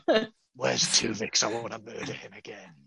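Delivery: a lightly voiced captain plotting murder; Janeway impression. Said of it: "You know, that type of".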